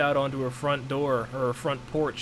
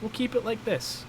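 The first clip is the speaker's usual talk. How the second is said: self quote; 10 semitones higher, 4 dB quieter than usual. Retold or imitated. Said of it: "and I was like".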